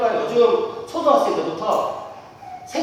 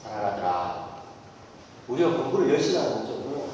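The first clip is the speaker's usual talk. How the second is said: low, soft, sincere counsel; a father earnestly teaching his son; earnest fatherly talk; 3 semitones lower, 6 dB quieter, faster than usual. Retold or imitated. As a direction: speak gently and seriously to your son. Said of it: "진지하게 얘기했죠".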